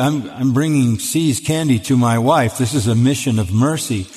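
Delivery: ordinary delivery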